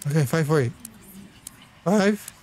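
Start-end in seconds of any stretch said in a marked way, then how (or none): 1.8-2.3 voice cracked. Real, not acted. Player reading the door code, voice cracking. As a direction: voice cracking up on Five. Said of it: "My voice cracked".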